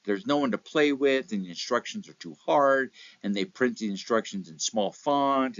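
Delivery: mock-petulant child complaining; whiny complaining. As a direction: play the sulky kid who finds fault with everything. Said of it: "complaining about everything".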